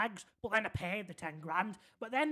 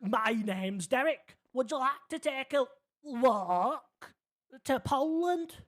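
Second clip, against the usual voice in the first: put-on slow, higher, louder old man; 3 semitones higher, 6 dB louder, slower than usual. Old man Derek inviting the narrator to Poland, slow. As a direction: drag it out like a dotty old man. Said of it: "I can't do an old man accent".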